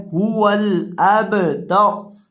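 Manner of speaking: अबतर with a bouncing echo on the ब; echoing qalqala in अबतर. Shown as a demonstration. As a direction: shake the ब in अबतर. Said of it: "बा को कलकला करके पढ़ेंगे हिलाकर".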